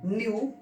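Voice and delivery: "न्यू" drawn out, ending in yoo. Shown as a demonstration. Teacher reading out an ew word for students, demonstrated yu sound. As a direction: say "न्यू" slowly with a yu glide. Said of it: "उसका उच्चारण हमें यू में करना है".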